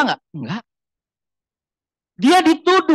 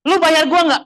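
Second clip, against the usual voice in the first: worldly retort; 8 semitones higher, 3 dB louder than usual. Retold or imitated. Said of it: "bahasa duniawi ya".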